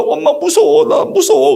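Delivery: put-on high, frightened child's voice; scared little girl. 겁먹은 딸 흉내. (겁먹은 어린 딸 목소리)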